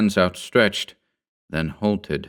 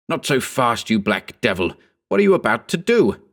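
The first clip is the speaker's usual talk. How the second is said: sharp challenge; 4 semitones higher than usual. Acted. Narrator shouts at the attacker.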